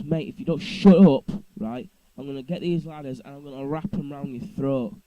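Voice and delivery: loud, heated threat that drops back down by the end; retold angry threat. Narrator threatening the neighbour with the ladders, angrily. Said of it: "I really lost my temper".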